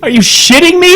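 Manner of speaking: can't believe what he's hearing; incredulous outrage. Retold or imitated. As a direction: pitch jumps way up in disbelief, slowing on the first words.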